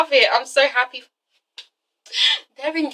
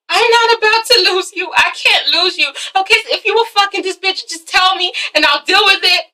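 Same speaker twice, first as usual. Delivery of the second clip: higher-pitched insistent plea; urgent pleading; 6 semitones higher than usual. Acted. Girlfriend pleading not to lose Derek, urgent.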